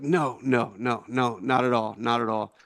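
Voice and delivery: lightly imitated Iraqi accent; a hint of Iraqi-accented English. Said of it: "this is how he sounded to me".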